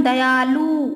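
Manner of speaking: दयालु stretched with a long "aa"; drawn-out wrong vowel. Shown as a demonstration. Teacher showing students the wrong, stretched दयालु. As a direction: pull out the vowel in दयालु slowly. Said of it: "खींच देते हैं".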